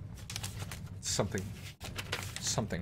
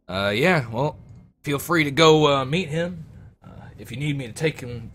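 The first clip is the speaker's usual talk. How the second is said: captain; 4 semitones higher than usual. Acted. Captain permits meeting.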